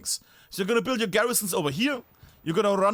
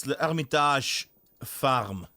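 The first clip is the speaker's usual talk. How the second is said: slow, badly faked French accent; fake French accent; 5 semitones lower, much slower than usual. Gamer naming a map he wants to see, fake French accent. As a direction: draw out the name in a half-hearted French accent. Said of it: "can't do a fake French accent".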